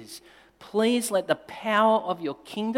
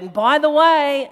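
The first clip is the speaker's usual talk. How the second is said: retold parting call; 9 semitones higher, 8 dB louder than usual. Parting shot at daughter leaving.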